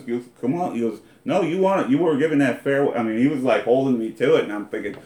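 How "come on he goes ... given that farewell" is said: teasing challenge. Retold or imitated. Friend quoted, high and loud.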